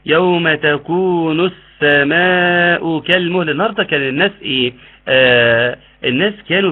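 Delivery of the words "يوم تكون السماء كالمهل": slow chanted يوم تكون السماء كالمهل; Quranic recitation. Shown as a demonstration. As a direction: recite slowly with tajwid.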